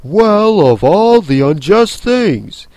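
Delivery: indignant. Acted. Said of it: "had just begun".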